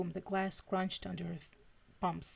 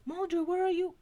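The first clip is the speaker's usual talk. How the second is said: much higher, louder frantic call; panicked shout; 11 semitones higher, 5 dB louder than usual. A narrator's reading. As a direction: shout into the phone, scared for him. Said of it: "she shouted into her phone".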